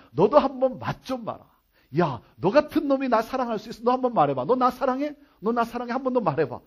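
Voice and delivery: acted, needling challenge; mock-cynical interrogation; cynical taunt. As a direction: rub it in, demanding an answer. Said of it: "그런 시니컬한 질문이냐".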